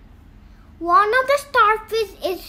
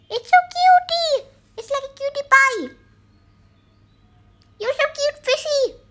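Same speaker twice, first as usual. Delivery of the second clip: cooing; 5 semitones higher than usual. Real, not acted. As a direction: coo at the cute fish. Cooing over cute fish.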